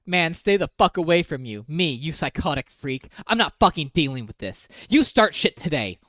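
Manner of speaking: understated imitation of his anger; mock angry read. Quoting the boyfriend's texts, mildly heated.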